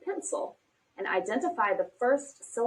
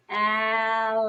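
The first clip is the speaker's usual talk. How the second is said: "Alligator" stretched out syllable by syllable on a level pitch; very slow syllables. Shown as a demonstration. Teacher asking child to count syllables, "Alligator" very slowly drawn out. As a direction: draw "Alligator" right out, syllables still slightly joined. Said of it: "I'm going to say a word very slowly".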